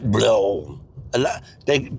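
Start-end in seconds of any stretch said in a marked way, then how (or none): 0.0-0.8 "blow" said round and low; low, round-mouthed "blow"; rounded French sound. Shown as a demonstration. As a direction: blob the throat out on "blow". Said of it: "You've got to be like".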